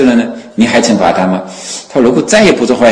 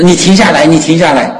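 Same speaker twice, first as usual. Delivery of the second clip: high-pitched, mildly raised mock shout; retold shout; 7 semitones higher than usual. Pursuer shouts for the Buddha to halt, high retold call. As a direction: imitate calling for someone to halt. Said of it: "他也喊".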